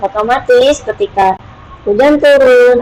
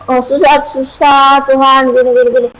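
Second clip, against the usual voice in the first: mock whiny prayer; 3 semitones higher than usual. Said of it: "Kamu cuma bilang".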